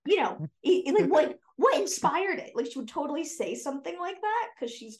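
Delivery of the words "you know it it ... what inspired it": high, curious mock mom voice; lightly voiced high mother; imitating mom. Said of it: "She's like".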